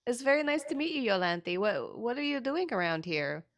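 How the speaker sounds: high, gushing welcome; eager friendliness. Acted. Tess vigorously shaking a new acquaintance's hand, eager friendliness. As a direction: start high and quick, easing into a curious question.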